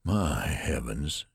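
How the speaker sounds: slow, slightly hushed dismay; horrified murmur. Acted. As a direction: breathe out the dismay slowly. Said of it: "he murmured".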